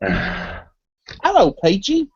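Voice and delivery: a deliberately bad British accent on the greeting; mock-posh British hello. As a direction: greet Peachy in a hammed-up British accent with a rising lilt. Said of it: "I have to say Peachy's name with a British accent".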